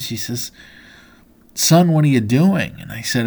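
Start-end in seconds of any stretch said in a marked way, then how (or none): 1.5-2.8 sudden loud, high alarmed shout; mother crying out in alarm; alarmed mother's cry. Retold or imitated. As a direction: yank the words out in a panic, like a frightened mom. Mom alarmed, pulls him back in.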